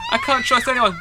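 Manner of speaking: put-on a paranoid girl turning on the stranger; paranoid anger. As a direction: push him away in paranoid fear. Crazed girl rejecting helper.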